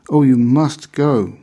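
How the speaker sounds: fervent, slow, lifted plea; a frail old lady urging with rapture; high quavering voice. Acted. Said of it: "The high-pitched, rather quavering voice".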